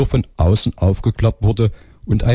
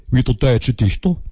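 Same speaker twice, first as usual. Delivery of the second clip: put-on Saxon phone girl, higher and lilting; Saxon accent; 3 semitones higher than usual. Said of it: "kommt aus Sachsen".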